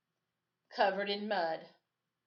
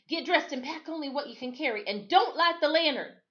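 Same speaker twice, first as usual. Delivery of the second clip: low warning; 8 semitones higher, 5 dB louder than usual. A narrator's reading. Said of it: "Adam warned".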